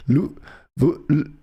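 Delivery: normal talking voice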